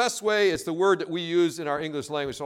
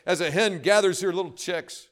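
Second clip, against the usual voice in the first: weeping plea; 6 semitones higher than usual. Acted. Jesus weeping over Jerusalem, lamenting cry. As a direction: plead as if heart is breaking, then fade. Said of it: "Jesus is weeping".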